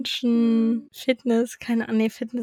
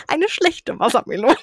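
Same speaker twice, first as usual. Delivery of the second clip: laughing quote; 3 semitones higher than usual. Retold or imitated. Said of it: "Und er so".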